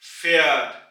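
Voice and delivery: फैट with a flat ए, said loud and clearly; demonstrated pronunciation. Shown as a demonstration. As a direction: model फैट slowly for learners. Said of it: "ए की आवाज निकलेगी". (फैट को साफ़ चपटी ए से बोलें)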